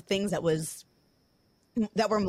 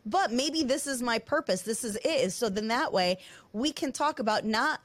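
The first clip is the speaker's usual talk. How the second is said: higher-pitched, emotional resolve; tearful; 5 semitones higher than usual. Real, not acted. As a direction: push on through real tears, voice lifted. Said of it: "if that means crying on a podcast".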